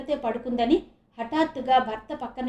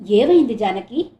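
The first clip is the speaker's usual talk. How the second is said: alarmed call; 10 dB louder than usual. Acted. Husband alarmed by shouting.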